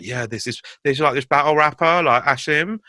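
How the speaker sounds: put-on a light London girl accent, playful; imitating ex-girl's London accent. Ex-girl hyping up a battle rapper, in a light London accent. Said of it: "You actually sounded like Mish".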